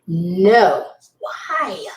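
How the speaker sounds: tearful shouted refusal; crying shout. Retold or imitated. Refusing the woman who wants her man, crying out. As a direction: yell no with a sob in it.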